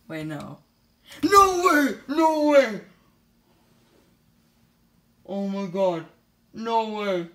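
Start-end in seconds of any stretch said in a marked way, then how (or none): 1.2-7.3 shrieking jackpot winner. Real, not acted. Friend opens surprise skin gift.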